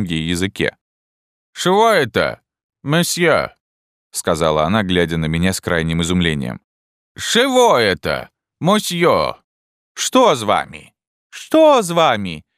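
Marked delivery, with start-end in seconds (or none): 1.5-10.9 put-on high, slow, broken-Russian old Frenchwoman; a bewildered elderly French wife, high and slow; old Frenchwoman puzzled by her husband; old French lady. Old French lady's lines. 11.3-12.4 much higher, louder and slower; old lady repeating her worried question; urgent repeat. Acted.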